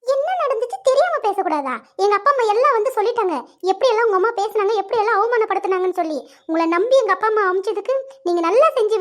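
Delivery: angry outburst. Acted. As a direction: lash out at him in anger. Lovers' phone quarrel. (காதலனிடம் கோபமாக கத்துதல்)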